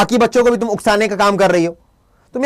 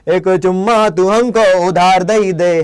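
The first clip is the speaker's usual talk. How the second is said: filmi romantic line; 3 semitones lower, slower than usual. Pretend.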